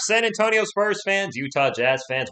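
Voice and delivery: loud, high drawn-out opening whoop into the welcome; hype greeting. Real, not acted. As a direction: open the stream with a big, loud shout-out. Livestream host's opening hype greeting.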